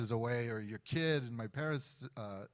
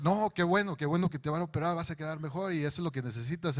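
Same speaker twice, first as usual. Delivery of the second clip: excited dad in Spanish; 4 semitones higher, faster than usual. Retold or imitated. Father tells his son surgery is good news, high and delighted. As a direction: gush with delight, then rattle it off fast.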